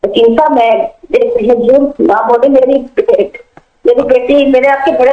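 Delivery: choppy phone line; bad connection. Real, not acted. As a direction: voice breaking up on the line. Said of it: "आपकी आवाज कट रही है".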